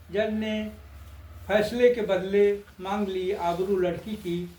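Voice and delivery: measured stage-poet delivery; lilting satirical verse recital; poem recitation. Acted. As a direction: recite verse line by line with pauses.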